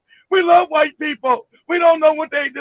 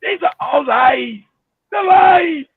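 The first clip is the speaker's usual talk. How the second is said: put-on slow, then louder Zimbabwean accent; 3 dB louder, slower than usual. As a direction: mimic the Zimbabwean preacher, building up. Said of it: "He makes me laugh".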